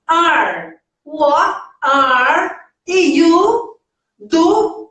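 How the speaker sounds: each word slow and separate, rising on you; slow careful English. Shown as a demonstration. Teacher modeling the question slowly for students. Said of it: "presta atenção na pronúncia".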